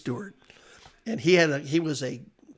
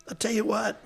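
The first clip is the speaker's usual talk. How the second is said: put-on higher, coaxing gravelly old official; gravelly steward voice; 7 semitones higher than usual. Steward Bill Carey calming Jack at the track, gravelly coaxing. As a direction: soothe a hothead like a smoky gym teacher. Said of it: "He's got a gravelly voice like that".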